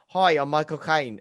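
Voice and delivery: a light imitation of Caine's greeting; casual mock Cockney hello; hint of Michael Caine; Michael Caine impression. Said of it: "impersonations that people do".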